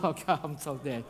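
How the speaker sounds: low, soft resignation; hushed, doomed aside; quiet dread. Retold or imitated. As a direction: act out sinking realization. Retold dread after rescue fails.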